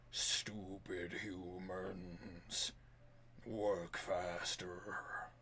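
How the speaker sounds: deep, slow and menacing. Acted. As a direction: drag each word out like a cruel overseer. Garbled voice of unseen master.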